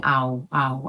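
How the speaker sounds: ow, ow gleitend vorgeführt; ow, ow wie in cow, als Fehler; wrong ow sound. Shown as a demonstration. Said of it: "to show you that I'm not saying".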